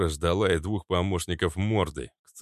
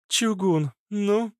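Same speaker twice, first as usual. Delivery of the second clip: impatient; 14 semitones higher, 3 dB louder, slower than usual. A narrator's reading. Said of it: "нетерпеливо".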